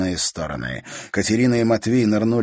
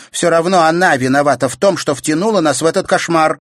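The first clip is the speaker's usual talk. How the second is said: louder, higher accusation; angry blame; 10 semitones higher, 9 dB louder than usual. A narrator's reading. Sister blaming Katerina, angry. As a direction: pin it on her.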